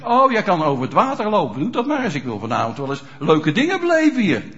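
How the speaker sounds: mildly taunting acted ruler; hammed-up mocking challenge. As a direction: goad him to perform for your amusement. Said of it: "die bespot hem".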